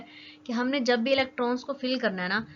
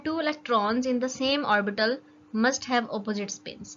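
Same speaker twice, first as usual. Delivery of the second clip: slow dictation; much slower than usual. Shown as a demonstration. Reading out the rule's definition.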